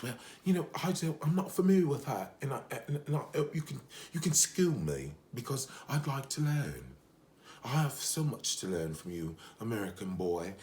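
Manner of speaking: hammed-up imitation of a British accent; mock British accent. Woman asking her American date to school her, mock British accent. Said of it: "talked as though she had a British accent".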